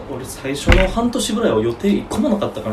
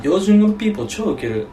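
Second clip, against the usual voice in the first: higher mock Tokyo accent; put-on standard Japanese; 5 semitones higher than usual. Shown as a demonstration. Friend joining the siren joke, mock Tokyo accent. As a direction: play at trendy Tokyo speech. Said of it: "標準語喋ろうと思うと".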